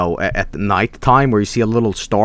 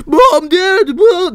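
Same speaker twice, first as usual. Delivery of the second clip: high, loud panicked call for mom and dad; scared child calling; 4 dB louder, much slower than usual. Retold or imitated. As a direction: wail for your parents like a frightened kid. Crying child calling parents.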